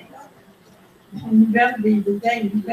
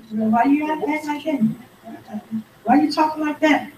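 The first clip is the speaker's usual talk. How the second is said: higher-pitched mock complaint; needling challenge; 5 semitones higher than usual. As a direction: act out someone provoking a quarrel. Acted provoker needling the soft speaker.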